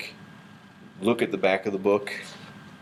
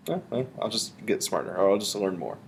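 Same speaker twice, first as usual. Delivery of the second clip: thinking voice; 3 semitones lower than usual. Shown as a demonstration. Teacher answering the poem's questions aloud, thinking voice. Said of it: "use my thinking voice to generate questions".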